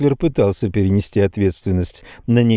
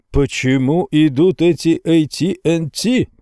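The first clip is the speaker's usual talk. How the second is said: higher-pitched, restrained yell of complaint; yelling client; 6 semitones higher than usual. A narrator's reading. Angry client yells at his salesman in the morning. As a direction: demand it in a raised pitch, mock-yelling. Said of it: "вопил на меня с утра знакомый голос".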